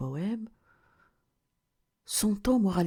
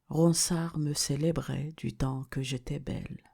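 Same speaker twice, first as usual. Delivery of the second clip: even, restrained verse reading; poem recitation. Acted. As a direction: recite the verse in measured, level lines. Recites the sonnet's first quatrain.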